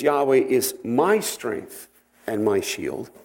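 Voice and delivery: slow line, leaning on "my" before strength; stress on "my". Shown as a demonstration. Teacher shows the congregation the psalm's individual voice, stressing "my". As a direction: set "my" apart with clear emphasis. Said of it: "goes from an individual to a corporate".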